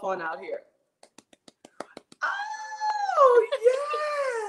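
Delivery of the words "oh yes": high, loud shout of joy; excited shout. Real, not acted. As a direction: burst out in delight. Host greets guest coming on.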